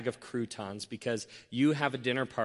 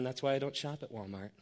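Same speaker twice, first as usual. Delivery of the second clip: smirking put-down; 8 dB quieter, faster than usual. Pretend. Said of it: "cross your arms and shake your head and smirk".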